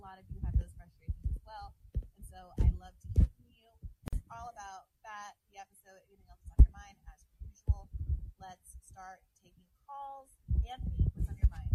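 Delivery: muffled, like a covered microphone; muffled mic. Real, not acted. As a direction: voice through a mic under a finger. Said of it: "It sounds like your mic's stuck in a sweater".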